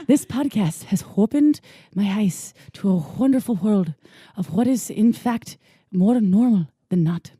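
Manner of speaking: measured Irish read with pauses between phrases; Irish accent. Acted. Host finishes reading a fan review, attempted Irish accent. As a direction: put on your best Irish brogue. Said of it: "that's my best Irish".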